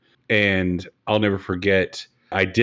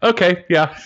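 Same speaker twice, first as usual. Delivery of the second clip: mock deflated; 10 semitones higher, 5 dB louder than usual. Retells reaction to the accent remark.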